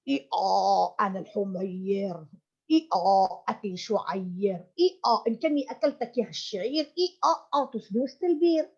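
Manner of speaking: a donkey braying its little rhyme. Acted. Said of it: "this is the voice of the donkey".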